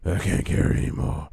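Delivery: husky copy of a game line; mimicking game character. Player echoing the game character, rough mocking imitation. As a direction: parrot the game's complaint, little voiced.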